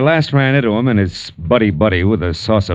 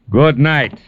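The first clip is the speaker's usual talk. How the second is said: higher, mock-cheery sign-off; sarcastic farewell; 6 semitones higher than usual. Detective quits on the coin collector, sarcastic farewell. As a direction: toss a parting jab, pitched up. Marlowe walks out on client.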